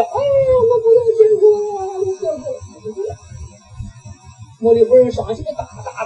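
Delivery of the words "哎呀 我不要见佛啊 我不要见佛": high, fast wailing plea, breaking into sobs; sobbing that she won't see Buddha; crying. Retold or imitated. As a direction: cry out like a frightened old woman begging. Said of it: "他哭起来了".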